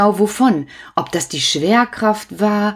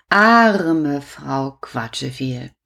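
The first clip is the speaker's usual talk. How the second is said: pitying; 5 semitones lower, much slower than usual. Acted. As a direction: sigh it out with pity. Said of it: "die arme Frau Quatscheviel". (bedauernd und langsam)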